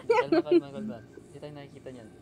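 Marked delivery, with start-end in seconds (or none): 0.0-1.0 urgent calm down. Real, not acted. Monster near, hushing friends.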